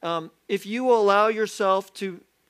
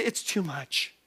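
quiet admission; 3 semitones lower, 5 dB quieter, slower than usual. Pretend.

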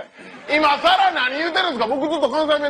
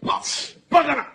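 斬られる雑魚. Acted. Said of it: "斬られる雑魚役".

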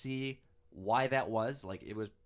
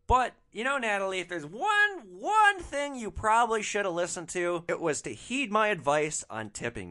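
higher, louder taunting address; mock taunt; 8 semitones higher, 6 dB louder than usual. Driver gloating at the absent passenger, loud higher taunt. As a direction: gloat at her like she can hear you.

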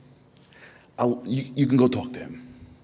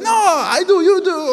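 high, loud mock-modest insistence; humble commando; 9 dB louder, slower than usual. The commando deflecting praise in a high mock-humble voice. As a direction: insist you're the hero, not me.

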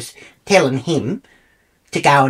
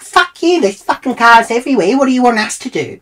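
a hammed-up fuck-you shout; angry shout; 8 semitones higher than usual. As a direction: yell it up high in disbelief. Flipping off honking driver.

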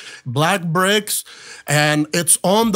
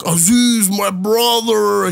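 higher, drawn-out imitation of a Texan; rough Texan voice; 4 semitones higher, 3 dB louder, slower than usual. Dan greeting his brother Aziz in a rough Texan voice. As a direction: lightly do a rough Texan, stretching the words. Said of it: "in this very rough Texan voice".

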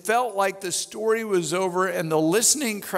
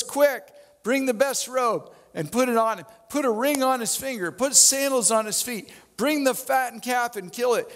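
father's glad orders, pitched up; joyful father; 6 semitones higher than usual. Acted. Father calling to servants to celebrate his son, joyful and pitched up. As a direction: call out the feast like an overjoyed dad.

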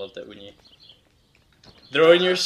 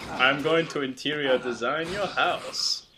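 slightly put-on celebrity designer voice; slight joking impersonation; Lawrence Llewellyn Bowen; 3 dB quieter than usual. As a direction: lightly voice a TV interior designer. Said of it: "Lawrence Llewellyn Bowen".

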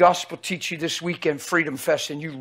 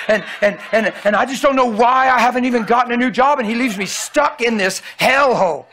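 quick, slightly higher, fretful complaining; lightly voiced whiny congregant; imitating a frustrated churchgoer; 5 semitones higher than usual. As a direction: play the grumbling counselee, half-mocking. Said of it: "That thing I just imitated".

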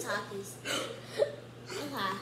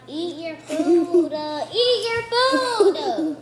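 firm slow order; stern loud; 3 semitones higher, 7 dB louder, much slower than usual. Real, not acted. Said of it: "for real, stop".

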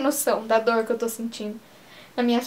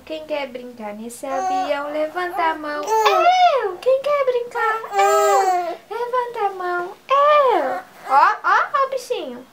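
put-on playful baby talk; 5 semitones higher than usual. Mother plays a raise-your-hand game with her baby, high and bouncy. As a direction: cheer like a game show for a baby.

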